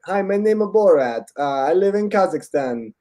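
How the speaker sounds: lightly imitated character voice, lifted at the start; Borat. Retelling how Borat opens the movie, lightly in his voice. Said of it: "it's literally like, he's like".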